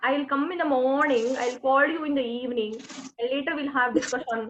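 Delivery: lightly imitated Kerala English accent; a hint of Malayali-accented English. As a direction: imitate a Kerala accent with sing-song phrases. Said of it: "This is the accent".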